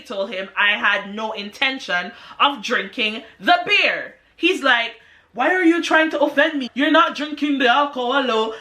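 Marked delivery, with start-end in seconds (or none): 5.3-8.5 put-on African accent. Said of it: "like, this African accent".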